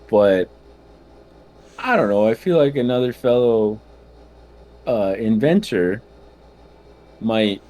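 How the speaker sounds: lightly voiced tinkering gnome inventor; a hint of a chatty gnome tinkerer. That's his gnome voice.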